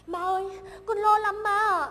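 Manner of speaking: rising frightened cry to her mother; begging mother, sick with worry; anxious plea. Acted. Daughter fears for husband.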